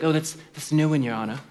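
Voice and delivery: lightly voiced snooty clerk; snooty court clerk. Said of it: "snooty, he was like".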